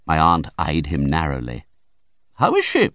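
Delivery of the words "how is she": very high urgent demanding question. A narrator's reading. Aunt urgently demanding news of the mother, very high. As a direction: press him for news.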